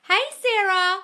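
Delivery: loud, high hello; excited greeting. Real, not acted. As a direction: call out to a friend. Greeting viewer.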